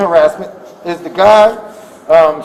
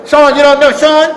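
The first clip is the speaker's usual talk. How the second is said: higher, louder mock yell; retold yelling; 4 semitones higher, 5 dB louder than usual. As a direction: imitate someone yelling a challenge. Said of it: "he starts yelling".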